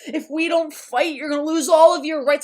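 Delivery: emphatic, hammed-up warning of doom; doom-and-gloom mom. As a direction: imitate a mother urgently rallying her child. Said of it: "doom and gloom about".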